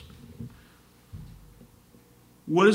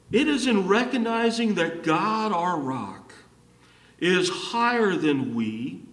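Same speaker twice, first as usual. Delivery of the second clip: emphatic preaching; 4 semitones higher, 3 dB louder than usual. Real, not acted. Preacher stating the key point to the congregation, emphatic. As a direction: proclaim it in measured, raised phrases.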